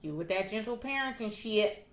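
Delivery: softly dismissive teasing, retold; mild mockery. Parents laughing at daughter's parenting, soft mocking imitation. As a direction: tease it under the level of normal talk. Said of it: "my parents laugh at me".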